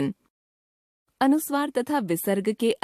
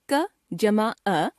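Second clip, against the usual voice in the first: slow spelling; slower than usual. Shown as a demonstration. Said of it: "teacher spelling out letters".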